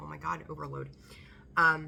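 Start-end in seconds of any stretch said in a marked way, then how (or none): none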